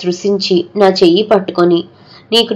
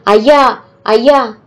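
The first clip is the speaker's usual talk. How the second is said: higher, strange wail beating her chest; wailing cry; 4 semitones higher than usual. Acted. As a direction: wail for the dead master. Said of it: "అని ఏడుస్తూ". (ఏడుస్తూ పిలుపు)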